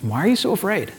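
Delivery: soft, quietly probing question; gently probing question. Acted. Jesus looks at his disciples after the storm, gently probing. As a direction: probe softly, with little force. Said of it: "a probing question".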